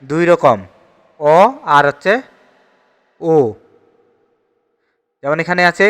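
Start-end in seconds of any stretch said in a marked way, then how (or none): 1.2-1.4 "অ" as an open aw; open o sound. Shown as a demonstration. Teacher lists two sounds of the letter, "অ" as open ɔ. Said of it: "অ বর্ণের উচ্চারণ হয়". 3.2-3.3 "ও" as a rounded oh; closed o sound. Shown as a demonstration. Teacher lists two sounds of the letter, "ও" as closed o. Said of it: "অ বর্ণের উচ্চারণ হয়".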